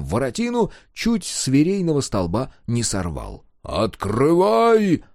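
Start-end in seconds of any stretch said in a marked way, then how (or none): 3.6-5.0 louder, slow, higher bellowed order; commanding shout. A narrator's reading. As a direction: boom it through the gate. Soldiers pounding on gate.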